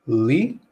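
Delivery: "li" alone, said like lee; syllable demo. Shown as a demonstration. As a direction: sound out "li" as a separate syllable. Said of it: "the second part is this".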